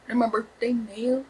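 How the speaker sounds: final s said clearly on nails; corrected nails. Shown as a demonstration. Correcting herself to viewers, nails with the s. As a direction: fix it to nails with the s. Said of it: "Oh, wait, hold on".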